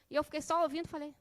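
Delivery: usual speaking voice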